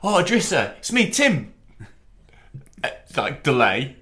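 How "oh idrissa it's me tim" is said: higher, over-friendly mock greeting; chummy Sherwood. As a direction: greet him like an old best mate. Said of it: "he goes".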